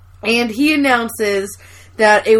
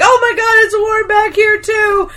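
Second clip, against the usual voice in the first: imitating Andy; 8 semitones higher than usual. Andy feeling the hot back door, mock alarm. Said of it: "Andy's like".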